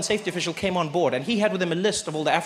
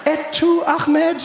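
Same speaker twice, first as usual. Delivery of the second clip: much higher, loud incredulous cry; outraged disbelief; 11 semitones higher, 5 dB louder, much slower than usual. Retold or imitated. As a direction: hurl it in betrayed shock. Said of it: "I was like".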